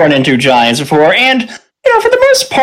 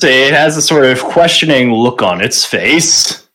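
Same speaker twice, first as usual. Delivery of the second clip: ordinary talk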